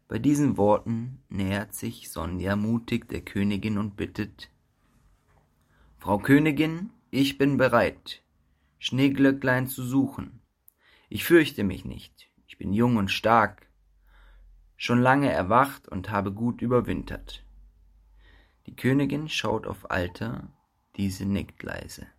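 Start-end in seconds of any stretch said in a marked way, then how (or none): 6.0-17.4 loud, bold volunteer; eager and brave. Acted. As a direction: step forward boldly. Brave young bee volunteers.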